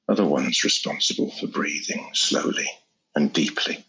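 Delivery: measured phrases with pauses between; lightly demonstrated relaxation patter; breath-paced relaxation talk. Shown as a demonstration. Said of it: "timing how you speak with their respiratory pattern".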